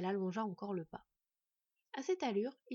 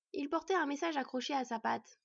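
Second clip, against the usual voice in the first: put-on high, louder little boy; child's voice; 6 semitones higher, 3 dB louder than usual. Boy telling the dwarf about the bird, high childlike voice. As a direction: explain earnestly as a child.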